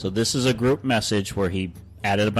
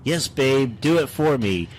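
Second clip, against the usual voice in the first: raised, playfully urging pitch; eager girlfriend; 4 semitones higher, slower than usual. Acted. Pretend girlfriend urging boyfriend on, eager mock passion. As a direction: lightly act a girlfriend egging him on. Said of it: "That is me as Nicole".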